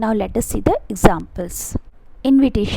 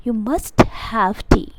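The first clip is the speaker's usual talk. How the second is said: slow, pressing "You must have tea।" with weight on must; insisting politely; much slower than usual. Shown as a demonstration. Teacher insists the student must have tea, slow and firm. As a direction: lean on must to insist warmly. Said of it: "यानी मैं इस बात को जोर देकर बोल रही हूँ".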